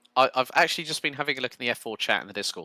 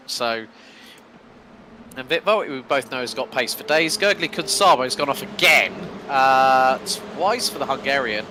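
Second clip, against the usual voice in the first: brisk live play-by-play; lap-one race caller; race commentary. Acted. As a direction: call the race as it unfolds.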